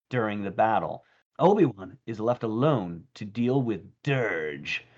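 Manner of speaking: dramatic recap narration voice; trailer narrator. Acted. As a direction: read it like a cartoon recap announcer. Reads episode synopsis aloud.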